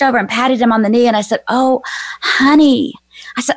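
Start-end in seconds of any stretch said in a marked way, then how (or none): 1.5-2.9 drawn-out, slow words of comfort; retold soothing, stretch the words gently; tender consoling. Consoling a sobbing young man.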